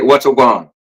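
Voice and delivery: Jamaican greeting said as a prompt; Jamaican accent. Shown as a demonstration. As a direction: model a Jamaican accent for someone to copy. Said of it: "let me hear you do the Jamaican accent".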